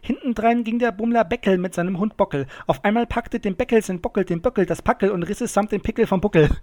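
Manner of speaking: fast, unbroken tongue-twister delivery; schneller Zungenbrecher. Shown as a demonstration. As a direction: rattle it off in one quick run. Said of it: "Okay, ich versuch's schnell". (schnell und flüssig durchgezogen)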